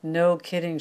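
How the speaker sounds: dry, sarcastic retort. Acted. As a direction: say it with open sarcasm. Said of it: "making no attempt to hide the sarcasm".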